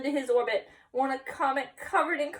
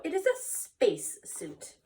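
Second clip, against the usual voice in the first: proud declaration; 6 semitones higher, slower than usual. Acted. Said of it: "declared Scapito".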